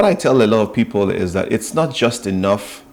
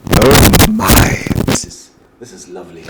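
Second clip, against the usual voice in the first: delighted client; 6 dB louder than usual. Retold or imitated.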